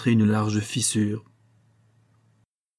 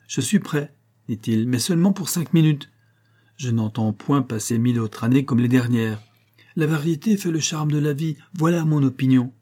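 higher, cheerful giant voice; gullible giant Atlas; 4 semitones higher than usual. Acted. Naive giant agrees to take the sky for five minutes. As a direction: agree naively, pleased with himself.

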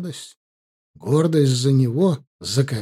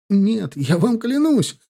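pleading; 9 semitones higher, slower than usual. Acted. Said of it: "взмолился Кабиль".

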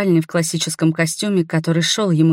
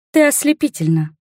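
pleased; 7 semitones higher than usual. A narrator's reading. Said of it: "довольно улыбалась Снежинка".

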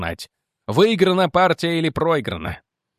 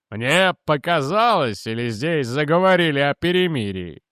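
loud exclamation. A narrator's reading. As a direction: draw the words out in mock disbelief. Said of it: "громко воскликнул он".

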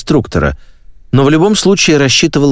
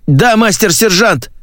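hoarse, strained, slow and higher; hoarse croak; 11 semitones higher, slower than usual. Acted. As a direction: croak it out from under a boot. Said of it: "прохрипел Маккейн из-под ботинка". (хриплый сдавленный ответ)

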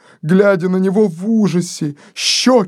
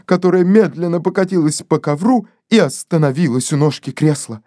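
ordinary delivery

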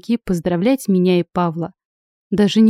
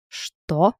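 ошалело; 2 semitones lower, 4 dB quieter than usual. Acted. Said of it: "ошалело уточнил дед".

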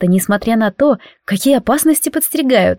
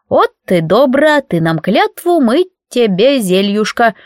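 smiling; 2 semitones higher, slower than usual. Acted. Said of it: "улыбнулась Маруся".

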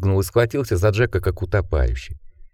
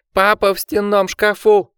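cried out; 11 semitones higher than usual. A narrator's reading. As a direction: yell it as a terrified boy. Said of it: "крикнул Ричард".

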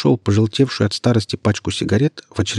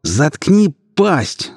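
slow, much higher, louder yell; shout; 8 semitones higher, 4 dB louder, much slower than usual. A narrator's reading. Ilya yells at the surgeon, slow and much louder. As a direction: bark at him to shut up. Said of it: "заорал Илья".

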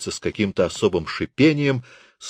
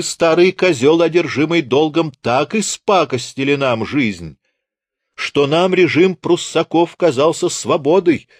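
put-on raised, contemptuous berating of an old teacher; scathing higher-pitched rant at a hated teacher; scornful tirade; 5 semitones higher than usual. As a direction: pour scorn on him, pitch climbing.

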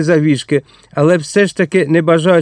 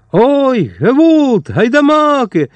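panicked screech; 9 semitones higher, much slower than usual. A narrator's reading. Innkeeper seeing the armed Cossack, terrified high wail. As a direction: shriek in panic at the rebels. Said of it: "зарепетував він не своїм голосом".

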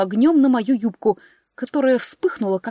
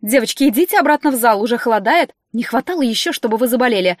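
put-on flutter over the girls, louder; fussy steward scolding the witches; 4 dB louder than usual.

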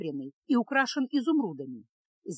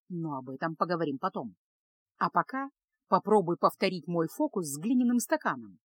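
lightly voiced wizard teacher; 3 semitones lower than usual. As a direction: explain it as a patient magic tutor, lightly voiced.

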